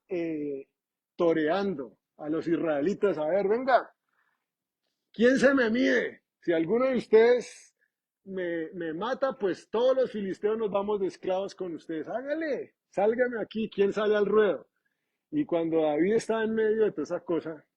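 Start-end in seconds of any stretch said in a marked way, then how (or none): 3.2-14.7 a mocking giant daring someone to fight; Goliath taunting. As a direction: taunt the enemy like a bully.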